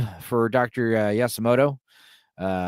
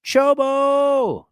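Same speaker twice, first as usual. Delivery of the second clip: high, bright exclaimed name; delighted exclaim; 5 dB louder than usual. Retold or imitated. Girl repeats the boy's name, high surprised cry. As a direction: echo his name, surprised and charmed.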